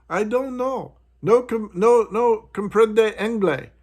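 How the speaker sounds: high, slow mock imitation of a heavy Spanish accent; mockingly imitates the agent's halting Spanish-accented English; mock broken English. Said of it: "she's speaking broken English".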